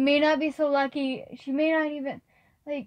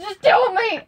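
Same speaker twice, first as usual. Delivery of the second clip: urgent demand; 6 semitones higher, 6 dB louder than usual. Acted. Hefty presses Kai again.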